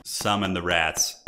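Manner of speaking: low, slow, menacing murmur; low ominous summons. Pretend. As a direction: intone it darkly and slowly. Repeated summoning, lower take.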